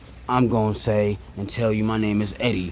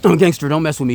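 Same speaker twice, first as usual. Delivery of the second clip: higher, louder tough-guy boast; mock gangster; 6 semitones higher, 6 dB louder, faster than usual. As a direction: play a joking tough guy. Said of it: "Just kidding, I'm not a gangster".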